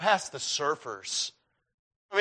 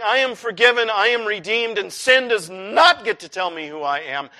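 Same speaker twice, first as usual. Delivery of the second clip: firm, emphatic confession of faith; bold declaration; 5 dB louder than usual. Acted. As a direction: declare it with conviction, word by word. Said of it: "There is a healthy way of saying".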